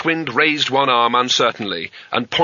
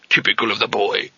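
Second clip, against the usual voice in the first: put-on old wizard voice. A narrator's reading. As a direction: stretch the name out in aged disbelief. Old wizard behind the door.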